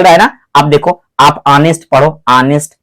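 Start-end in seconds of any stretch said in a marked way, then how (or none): 1.5-1.9 ऑनेस्ट starting straight on the vowel; silent H. Shown as a demonstration. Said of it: "यहां से आवाज आ रही". 2.3-2.7 ऑनेस्ट starting straight on the vowel; silent H. Shown as a demonstration. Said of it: "जबड़े के अंदर से आवाज उत्पन्न हो रही".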